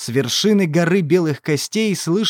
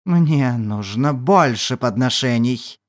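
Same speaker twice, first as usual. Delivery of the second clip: lower, slow ancient demon voice; 5 semitones lower, slower than usual. Acted. Demon speaks.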